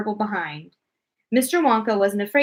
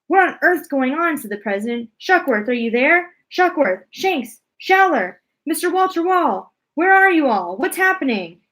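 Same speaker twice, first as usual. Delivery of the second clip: high, louder alarmed calling of names; frantic calling out; 6 semitones higher, 5 dB louder than usual. Acted. President calling the lost astronauts over radio, high frantic shouts. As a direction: call out desperately for your men.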